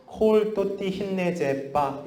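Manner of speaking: slow, bouncy staccato syllables. Shown as a demonstration. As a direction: tap out each syllable, high and bouncing. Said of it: "스타카토처럼 읽으라 그래요".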